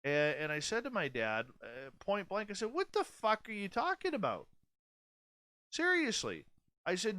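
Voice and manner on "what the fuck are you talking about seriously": high, incredulous outburst at dad; raised, exasperated swearing at father; angry retort. Retold or imitated. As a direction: snap back in disbelief, pitch jumping up. Retold heated phone argument.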